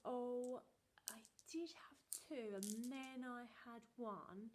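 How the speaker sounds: half-whispered slow confession; a child caught out, mumbling; sheepish boy. Retold or imitated. Brother confessing to his mother, sheepish and hushed. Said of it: "And he was like".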